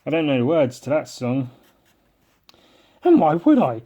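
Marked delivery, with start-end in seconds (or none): 3.0-3.8 scornful mock rant; cynical character rant. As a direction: sneer at Christmas. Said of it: "that's my character".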